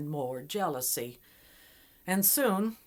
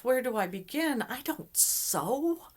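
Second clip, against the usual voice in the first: put-on a girl at her wits' end; mock panic, voice pitched up; panicking girl; 7 semitones higher, 4 dB louder than usual. Girl panicking alone with cloth.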